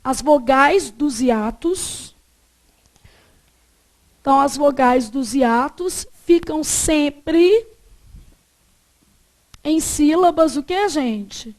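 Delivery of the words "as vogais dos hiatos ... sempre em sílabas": slow, drawn-out words with long pauses; slow dictation. Shown as a demonstration. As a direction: dictate it piece by piece for note-taking. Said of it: "como é que nós vamos colocar assim".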